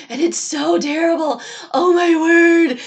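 exasperated groan. Acted. Scorching wind, Jonah suffers.

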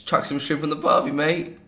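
put-on light Australian accent, teasing a friend; lightly put-on Australian twang on a cliché; a hint of Australian accent, mocking. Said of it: "admit you speak like that".

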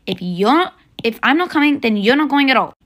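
a fed-up mother's scolding; angry mom. Acted. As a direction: lay down the law, fed up. Mom scolds rude daughter.

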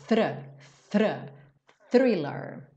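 "thriller" with the tongue between the teeth, then rolling into the R; tongue out for "Thr", then pull into the R. Shown as a demonstration. Teacher drilling the th sound, tongue between teeth. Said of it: "Tem que botar a linguinha lá".

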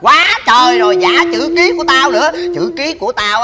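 high indignant outburst; outraged father. Acted. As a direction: blow up at the forged signature. Father outraged at forged signature.

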